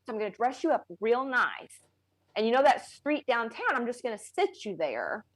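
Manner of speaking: deadpan retold proposal; straight-faced imitation. Wife quotes her husband's joke about paying for snakes, straight-faced. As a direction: say it as a plain, serious plan. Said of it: "he said it all with a straight face".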